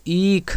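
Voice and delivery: ईख with a lengthened ई; teacher reading ईख with long ई; long vowel demo. Shown as a demonstration. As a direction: hold the first vowel of ईख. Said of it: "ई का sound लंबा आएगा".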